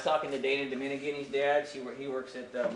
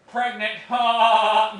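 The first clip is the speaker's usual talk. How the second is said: loud, higher, hammed-up cackle after the joke; mocking student laugh; 8 semitones higher, 15 dB louder than usual. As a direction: ham up a kid laughing at her own pun. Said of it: "and she's like".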